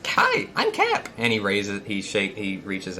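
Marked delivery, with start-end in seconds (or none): 0.1-1.1 very high, slow put-on introduction; high-pitched eager greeter; Cap. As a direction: introduce yourself in a drawn-out falsetto. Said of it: "let's see if I can do his voice".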